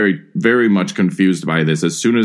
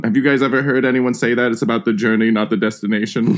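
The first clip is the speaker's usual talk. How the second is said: quick puzzled question; 4 semitones higher, faster than usual. Acted. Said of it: "that's, like, a local colloquialism".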